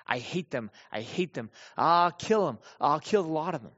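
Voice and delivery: mildly acted angry outburst, rising on the threats; mock venting. Preacher imitating what the psalmist isn't saying, mock venting. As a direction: imitate someone venting hatred, without full fury. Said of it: "not just venting his anger".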